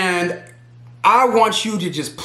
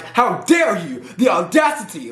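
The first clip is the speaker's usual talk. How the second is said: Candace. Retold or imitated. Imitating Candace's tone when the girls come for her, commanding. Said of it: "it's very commanding".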